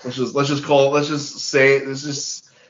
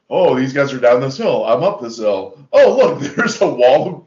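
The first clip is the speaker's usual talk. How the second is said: hammed-up surprise at an obvious obstacle; mock discovery; 5 dB louder than usual. Acting out a film character finding the wall, mock surprise.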